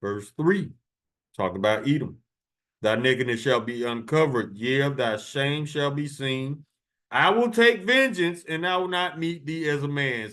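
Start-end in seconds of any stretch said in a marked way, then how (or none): 2.8-10.3 preaching scripture. Acted. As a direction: proclaim the verse, rising to a cry. Reads Isaiah verse, building.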